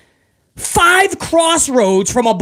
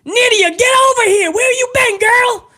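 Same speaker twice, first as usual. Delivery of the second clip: high trailer park wrestler voice; much higher, twangy put-on wrestler voice; Jamie Noble impression; 14 semitones higher than usual. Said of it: "He spoke like that".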